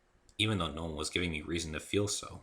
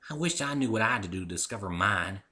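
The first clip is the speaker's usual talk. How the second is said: sad. Acted. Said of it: "she said sadly".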